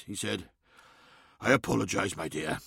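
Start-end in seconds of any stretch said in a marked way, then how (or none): 1.4-2.6 soft apology. A narrator's reading. Lemuel makes up after quarrel.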